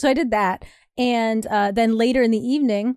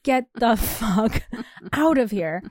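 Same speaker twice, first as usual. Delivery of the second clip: laughing dismissal; slower than usual. Retold or imitated. Retelling telling guy to leave.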